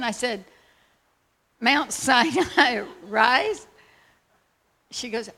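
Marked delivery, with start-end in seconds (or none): 1.6-3.7 slow, louder, laughing through the question; can't believe the address, laugh it out; slow incredulous repeat with a laugh; laughing disbelief. Retold or imitated.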